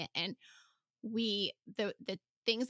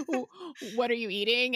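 stern parent; 3 semitones higher, 6 dB louder than usual. Retold or imitated. Busting kids with cookie.

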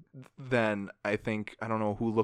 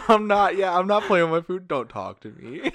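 mocking whiny kid; 8 semitones higher, 8 dB louder than usual. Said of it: "imitating the girl".

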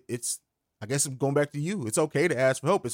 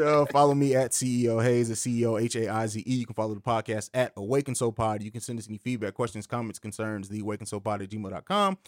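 smooth pitchman read; infomercial voice; 2 semitones lower than usual. Acted. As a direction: read it like a late-night ad. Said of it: "he said that like an infomercial".

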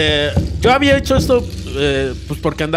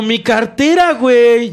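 higher, pleading wail; mock panic; 7 semitones higher, 5 dB louder, slower than usual. Retelling his drunk plea to Jorge, a mock panicked wail. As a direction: beg like the wallet is gone forever. Pleading about lost wallet, retold.

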